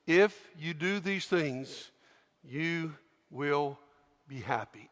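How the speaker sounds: slow, hushed scripture words; gentle quoted verse; soft quote of Jesus. Acted. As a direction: say it softly, slowly, like a promise. Quoting Jesus softly.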